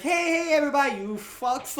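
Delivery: high, loud called-out hail; loud, cocky retold shout; mock crowd greeting. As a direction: imitate hailing a whole crowd. Retold character greets a rally crowd.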